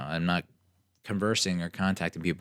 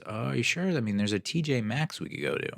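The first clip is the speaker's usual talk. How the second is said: a touch higher, eager offer; lightly voiced eager driver; mild chirpy driver; 4 semitones higher than usual. The driver pushing a store stop, a touch chirpy.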